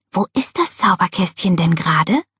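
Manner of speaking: in a hushed whisper. Narrator reads a girl asking her friends a question, whispered. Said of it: "flüsterte jasmin".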